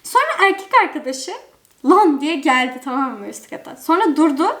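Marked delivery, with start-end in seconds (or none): 1.8-2.2 angry call. Retold or imitated. Angry boyfriend storming upstairs.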